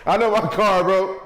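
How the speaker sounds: high, loud laugh through the words; cracking up, barely getting it out; laughing hard. Real, not acted. Cracking up at flying cars joke.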